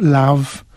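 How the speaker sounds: love with a wide open a, like "lav"; wrong vowel. Shown as a demonstration. Teacher showing another version to avoid, love said as "lav". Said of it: "not love".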